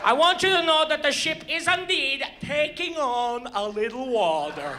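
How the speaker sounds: lightly voiced captain, slowing on little water; understated calm captain downplaying it; captain announcement. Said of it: "the captain comes on and goes".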